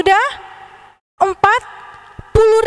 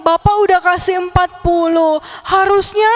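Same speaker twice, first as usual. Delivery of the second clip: a child's mock wail, higher; wailing greedy child; 4 semitones higher than usual. Greedy child whines at the old man, mock wailing. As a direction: whine for more money, half crying.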